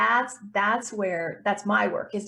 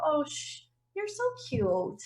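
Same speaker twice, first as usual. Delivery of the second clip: cooing to a dog. Pretend. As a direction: coo at the little voice like a puppy. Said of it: "turn it into a dog and just go".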